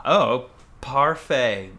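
slow, hammed-up French accent; drawn-out mock French accent; foreign accent in french. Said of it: "my French is beaucoup good".

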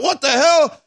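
high, incredulous; high mock disbelief; mock bewilderment. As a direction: squawk it in disbelief. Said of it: "You're like".

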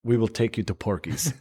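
put-on comic Russian accent. Russian envoy sweetening the deal, Russian accent. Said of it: "if I'm doing a Russian accent".

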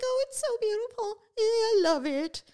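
high, cooing delight over a kitten; imitating a widow gushing over the kitten she was given; gushing old lady. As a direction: coo like a sweet elderly woman thrilled with her gift. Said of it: "and she's like".

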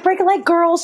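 high-pitched call to the group; cheery send-off. Retold or imitated. To the other girls at the audition, cheery send-off. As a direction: call good luck over your shoulder, high.

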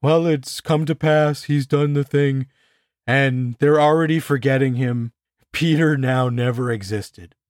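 mild mock observer gravity; solemn observers. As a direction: intone it like a detached observer. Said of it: "they're like".

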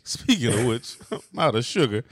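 laughing Rodney Dangerfield imitation; Dangerfield impression. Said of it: "that sound very Dangerfieldy to me".

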